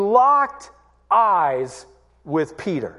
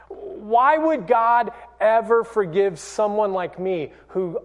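regretful self-questioning. Retold or imitated. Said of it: "you ask yourself".

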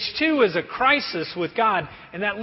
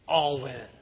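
cocky poker call; 7 semitones lower than usual. Retold or imitated. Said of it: "those guys get real cocky and tough".

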